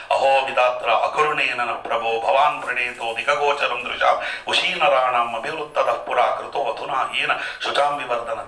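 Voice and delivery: measured, intoned shloka recital; Sanskrit verse recitation. Acted. Preacher quoting scripture to listeners, intoned recital.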